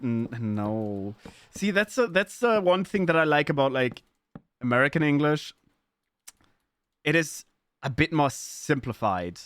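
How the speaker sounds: normal talking voice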